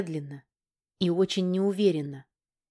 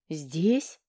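indignant question; 2 semitones lower than usual. Acted. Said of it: "возмутилась".

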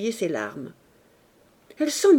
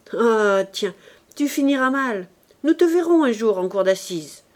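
angry scolding; 4 dB louder than usual. Acted. Uncle scolds nephew, angry tirade.

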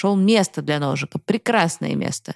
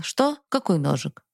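trembling answer. Acted. Boy frightened, answering father's question about the knife, trembling. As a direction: answer meekly, voice catching with fear. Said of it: "и я с дрожью ответил".

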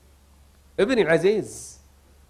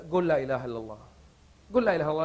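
gentle prompting; 6 semitones lower, 8 dB quieter, much faster than usual. Retold or imitated. Officer prompting dying man.

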